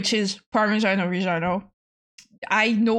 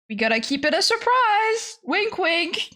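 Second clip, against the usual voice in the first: high, cheeky teasing; coy whisper-free tease; playful secret; 7 semitones higher than usual. Acted. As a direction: keep the secret with a wink. Teasing a surprise.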